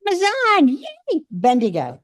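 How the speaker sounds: cheering. Real, not acted. Cheering the gift's source.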